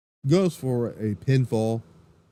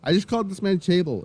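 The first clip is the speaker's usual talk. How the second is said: amused disbelief; 8 semitones higher than usual. Real, not acted. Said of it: "I've mixed the two".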